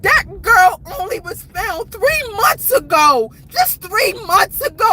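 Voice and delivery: upset insistence through tears; tearful, exasperated emphasis; real tearful protest. Real, not acted. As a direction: insist on it, close to crying. Upset, tearful protest about the story.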